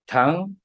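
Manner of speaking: "tang" held up high with a rising tone; stressed syllable. Shown as a demonstration. Teacher splitting the word tango for listeners, stressed syllable. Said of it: "tang是重音".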